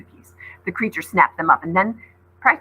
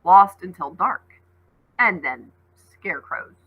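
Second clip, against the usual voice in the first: ominous wolf; 5 dB louder than usual. Acted. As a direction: draw it out with dread.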